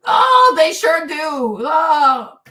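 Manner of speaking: drawn-out loud exclamation; loud emphatic shout. Real, not acted. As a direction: bellow it slowly for emphasis. Emphatic outburst.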